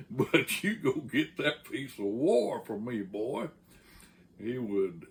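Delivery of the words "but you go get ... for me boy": a light hint of thick Southern Texas, teasing; Southern Texas drawl. K L teases the grunt in a mild Southern Texas accent. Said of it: "lay it on thick, that Southern Texas accent".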